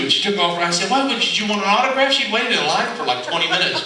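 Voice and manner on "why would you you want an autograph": high surprised question; retold surprise. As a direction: sound baffled she's leaving.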